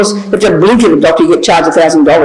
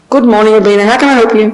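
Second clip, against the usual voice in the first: friendly greeting; 2 semitones higher, faster than usual. Retold or imitated. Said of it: "So friendly".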